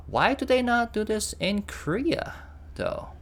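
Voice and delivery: excited question. Real, not acted. Wondering why Korea lacks subtitles.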